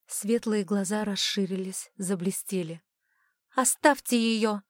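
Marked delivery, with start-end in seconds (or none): 3.5-4.6 a slow plea, voice breaking up. A narrator's reading. Darren begs the mentalist to spare her, voice breaking. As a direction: beg with a cracking voice. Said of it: "срывающимся голосом попросил Даррен".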